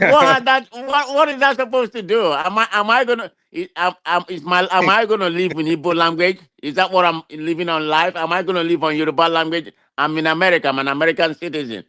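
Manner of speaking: real indignation, arguing back; indignant protest. Real, not acted. Protesting accusation about speaking Igbo.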